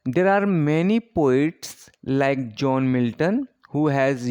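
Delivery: very slow, word-by-word English reading for notes; dictating poets and dates to the class, very slow; slow dictation. Acted. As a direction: spell it out slowly so students can write. Dictates list of blank verse poets.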